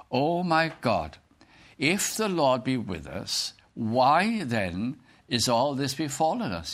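slow, measured Bible reading; scripture reading. Acted. Gideon questioning the angel, slow scripture reading. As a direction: read the verse out slowly and deliberately. Reads scripture aloud to the congregation.

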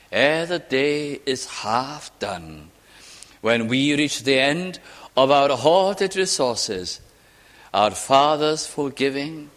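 slow, solemn recited verse; poem recitation. Acted. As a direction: recite the hymn slowly, letting it settle.

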